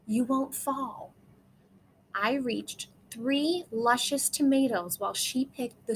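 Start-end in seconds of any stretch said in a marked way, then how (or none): 0.1-1.1 soft, steady reassurance; calm the child on the trellis. A narrator's reading. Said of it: "Her voice was steady and soft".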